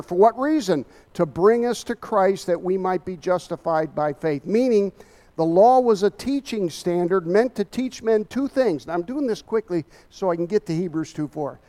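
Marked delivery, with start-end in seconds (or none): 1.1-11.6 preaching while short of breath; breathless from rushing through the sermon. Real, not acted. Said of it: "if it sounds like I'm out of breath, I am".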